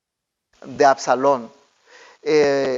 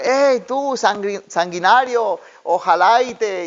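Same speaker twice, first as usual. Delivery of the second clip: mock yell; 4 semitones higher than usual. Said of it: "un hombre le comenzó a gritar".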